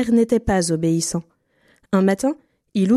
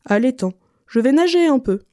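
lightly voiced duck, raised pitch; duck character; 5 semitones higher than usual. A narrator's reading. Duck telling the bird its plans, lightly voiced and higher. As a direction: answer as a duck, a little higher.

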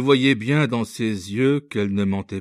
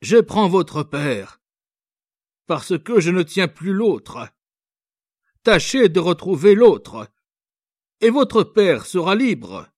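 stern officer; 9 semitones higher, 7 dB louder than usual. A narrator's reading. Officer to the young girl, bargaining, stern. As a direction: lay down the terms coldly. Officer voiced giving terms.

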